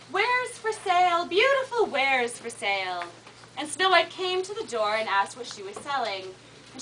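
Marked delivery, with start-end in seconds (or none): 0.1-3.0 peddler's call. Acted. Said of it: "she called out".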